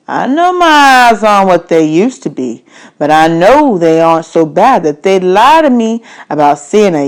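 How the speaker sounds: a hint of a gruff stranger lecturing; stranger's voice.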